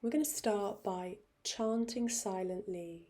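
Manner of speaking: gentle meditation guide with long pauses; softening voice, settling into meditation; guided meditation. Real, not acted. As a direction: ease them into stillness, unhurried. Leads into a meditation.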